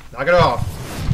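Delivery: slow, drawn-out annoyed warning; annoyed grumble. Real, not acted. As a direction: stretch it out, fed up but contained. Grumbling at game pursuer.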